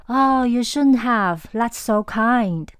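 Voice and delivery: a touched, surprised Oh, you shouldn't have; gushing over an expensive gift; touched surprise. Pretend. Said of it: "对方花大钱买礼物送你". (收到贵重礼物时感动惊喜地说)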